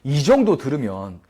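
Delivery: ordinary delivery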